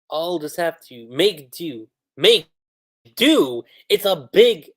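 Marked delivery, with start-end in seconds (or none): 2.2-4.7 loud, high disbelief; incredulous. Real, not acted. Mocking the official translation's wording, loud disbelief. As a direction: repeat it as if you can't believe it.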